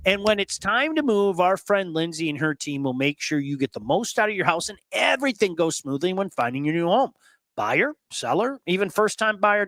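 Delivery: a smooth sponsor read for Lindsay Broadwell; host slipping into a sponsor read. Acted. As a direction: sell the realtor like a live radio spot.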